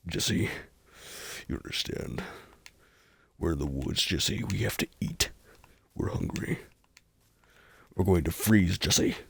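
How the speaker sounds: low, hushed urgent Walter; lightly voiced Walter White. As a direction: lean in and plead like Walter in crisis. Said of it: "Breaking Bad, but Walter and Jesse".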